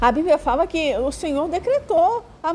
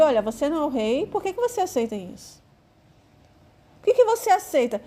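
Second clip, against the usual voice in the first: goading wife. Retold or imitated. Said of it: "Mais ou menos assim".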